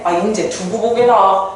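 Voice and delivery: put-on slow line in old-fashioned Korean dialect; lightly acted Korean regional speech, drawn out; rural Korean dialect. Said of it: "사투리 쓰고 있죠". (느릿한 사투리 흉내)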